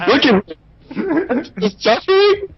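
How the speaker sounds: laughing. Real, not acted. Laughing at his suffering.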